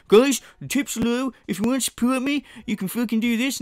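a hint of a whiny streamer asking for tips; mock streamer begging. Mocking the streamer begging viewers for tips, lightly whiny. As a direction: lightly mimic a needy streamer. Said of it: "stop every five seconds and go".

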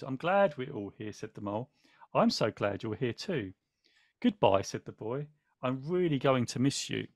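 gentle picture-book reading with small character voices; story reading. A narrator's reading. Host reading the book to viewers, gently narrated.

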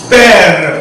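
"père" drawn out to its final r; slow sounding out. Shown as a demonstration. Teacher blending syllables for learners, slowly drawn out. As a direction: stretch "père" slowly so every sound shows.

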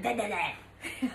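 slow, curt mock snap; snapping. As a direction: bite off each word, slowly. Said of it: "I snapped at them".

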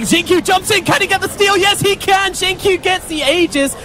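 rising, high-pitched commentary; excited play-by-play. Real, not acted. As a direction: sell the steal like a caster. Aegis steal mid-fight.

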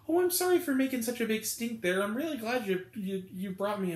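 mock the chatty moviegoer; mocking woman. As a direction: parody her with a sugary high voice. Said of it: "she's like".

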